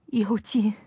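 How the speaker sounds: whispered calling of a name; a mother's whispered wake-up call; breeze-like call. A narrator's reading. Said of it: "那声音虽像荏苒中的微风轻拂".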